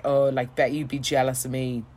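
low-pitched mock boast; bragging husband. Husband bragging about his wife, imitated boast. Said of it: "he was really bragging about her".

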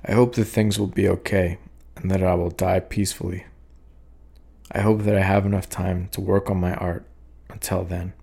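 steady, even poetry reading voice; poem reading. Acted. Poet reading his own poem to listeners, even and calm. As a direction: read the poem out, calm and measured.

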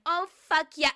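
over-the-top fake bedroom voice; mock dirty talk. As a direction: parody a porn-star moan. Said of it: "if I started being like".

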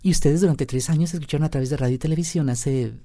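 female voice held; man doing a woman's voice. Shown as a demonstration. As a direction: speak as a woman.

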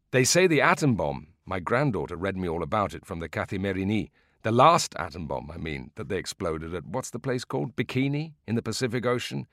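a hint of an old man drifting off topic; old man digressing while listeners wait; rambling old man. Old man digresses to atom bomb.

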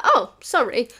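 loud mock apology; over-apologetic reply. Waitress apologising to a disputing customer, loud acted apology.

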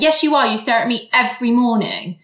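loud, high retort; insisting loudly. Retold or imitated. Woman insisting to the man he stares, loud retort. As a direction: push back hard. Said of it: "And I was like".

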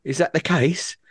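mock his wife's disbelief; sarcastic wife. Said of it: "turns to me and goes".

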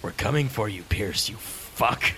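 very slow, low demonic threat. Pretend. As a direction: drag out each word menacingly. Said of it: "I'll stick with".

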